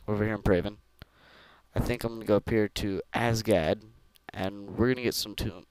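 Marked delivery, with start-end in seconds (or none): 1.7-5.7 tired. Real, not acted. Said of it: "sorry if I'm talking weird".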